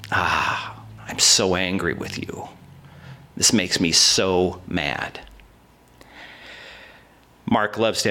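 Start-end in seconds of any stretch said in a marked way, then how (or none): 0.1-5.2 low, slow restrained anger with a breathy ah; mock indignant rebuke, held low and slow; imitating Jesus angry. Jesus rebuking the disciples over the children, low and angry. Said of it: "he was upset and angry".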